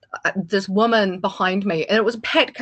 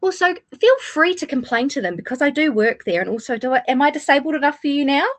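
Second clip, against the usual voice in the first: sarcastic comeback; 6 semitones higher than usual. Retold or imitated. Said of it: "And then I go".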